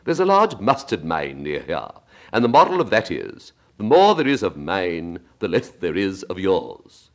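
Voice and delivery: lightly voiced preachy Duchess, slowing at the end; a hint of a smug old duchess moralizing. Duchess lecturing Alice.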